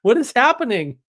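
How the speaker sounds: hammed-up wonder at the sweet tea; amazed disbelief. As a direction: play up the shock at the tea's magic. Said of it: "And I'm like".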